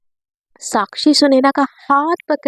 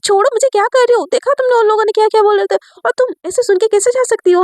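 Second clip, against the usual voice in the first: angry protest; 6 semitones higher, faster than usual. Acted. Angry girl held back.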